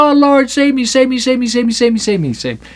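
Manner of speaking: high, repetitive wail that drops away at the end; mock pleading. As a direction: parody a needy believer begging over and over. Mimics Christians begging to be saved.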